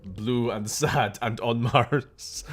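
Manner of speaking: light Austrian strongman impression; lightly put-on heavy Austrian accent; Arnold Schwarzenegger. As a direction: do a weary Hercules action-hero voice. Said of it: "the Arnold Schwarzenegger Hercules voice".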